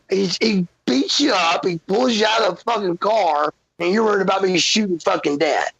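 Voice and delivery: high-pitched, incredulous reproach; indignant protest. Retold or imitated. Retold argument with mother.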